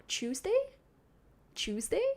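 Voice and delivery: "Tuesday" as "CHOOZ-day", questioning; own way of saying Tuesday. Shown as a demonstration. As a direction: test out "Tuesday" with a ch at the start. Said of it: "the way I say Tuesday".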